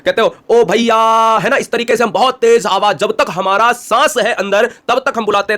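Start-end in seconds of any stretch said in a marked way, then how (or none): 0.5-1.0 calling out from afar. Shown as a demonstration. Teacher shows calling father in the field, loud call. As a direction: call ओ भैया loud and high, across a field. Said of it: "तो कैसे बुलाते हो बताओ".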